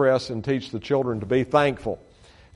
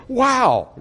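much higher, bright exclaimed wow; amazed wow; 11 semitones higher than usual. Retold or imitated. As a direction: quote her delighted surprise. Kathy sees the building drawing.

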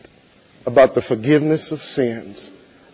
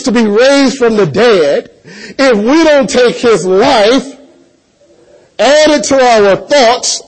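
louder, ringing pulpit delivery; preaching at full force; 7 semitones higher, 4 dB louder than usual. Acted. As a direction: preach it out to the congregation.

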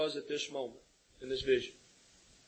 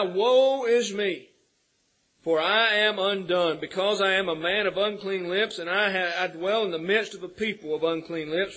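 crying out; 5 dB louder than usual. Retold or imitated. Preacher reading Isaiah's confession to the church, crying out. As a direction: proclaim the confession with raised voice. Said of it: "he cried out".

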